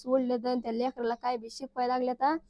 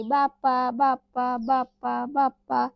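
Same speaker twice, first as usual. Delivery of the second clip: put-on toddler scolding; 3 dB louder, slower than usual. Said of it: "पिवळी मला तिकडून भांडत होती".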